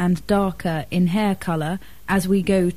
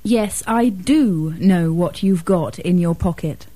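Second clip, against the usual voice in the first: "do" given strong stress; emphatic DO; 2 semitones lower than usual. Shown as a demonstration. Student contradicts the teacher about the pocket, stressing "do". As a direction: contradict firmly, hitting "do". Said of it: "using the emphatic form".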